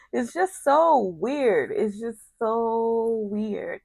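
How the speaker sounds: drawn-out stress on "so weird"; slow, incredulous emphasis; emphatic disbelief. Real, not acted. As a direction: stretch out "so" and "weird" slowly. Emphatic reaction, repeated for effect.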